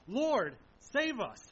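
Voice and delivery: loud, slow cry for rescue; desperate cry. Acted. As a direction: beg for your lives over the storm. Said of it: "They cry out to him".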